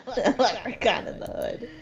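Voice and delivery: giggling at the title; laughing. Real, not acted. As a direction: repeat the title through a laugh.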